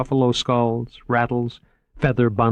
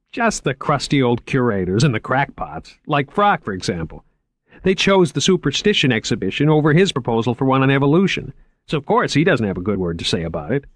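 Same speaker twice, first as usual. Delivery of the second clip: higher, keen salesman voice; lightly raised, enthusiastic museum man; eager curator Moriarty; 5 semitones higher than usual. Acted. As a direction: pitch the exhibit like an excited young curator. Moriarty dismissive.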